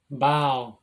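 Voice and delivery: "Bao" with a Spanish B for the V; Spanish-style pronunciation. Real, not acted. Teacher naming Hebrew letters, Spanish-style pronunciation. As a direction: say "Bao", starting on a B sound. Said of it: "I said Bao, I speak Spanish".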